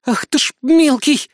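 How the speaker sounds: high, drawn-out angry female voice; slow, furious scolding; angry growl. A narrator's reading. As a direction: growl at the little brat through a high voice. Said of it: "гневно прорычала девушка".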